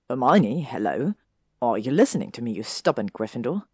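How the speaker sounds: calling for attention. Acted. Snapping fingers at dazed Hermione.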